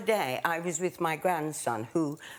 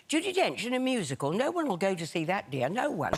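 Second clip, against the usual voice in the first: imitating a dismissive passerby, swooping pitch; overheard woman passerby. Actress mimicking a woman overheard outside her dressing room, dismissive. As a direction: play a scornful woman gossiping as she walks. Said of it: "I heard this woman saying".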